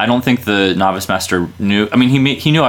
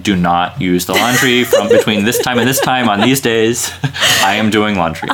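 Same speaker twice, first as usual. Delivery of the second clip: laughing; 3 semitones higher than usual. Retold or imitated. Retold sign, laughing through it.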